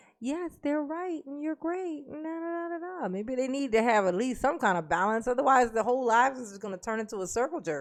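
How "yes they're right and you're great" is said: soft, high, gentle voice. Imagining someone different joining a group of manly voices, in a soft voice. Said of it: "somebody with a soft voice come in".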